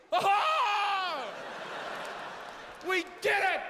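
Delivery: fake surprise. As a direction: ham up the surprise as if fooled. Mocking concertgoers' fake surprise.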